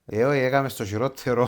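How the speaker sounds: laughing through the words; amused, chuckling while talking. Real, not acted. Guest joking about a wrong guess.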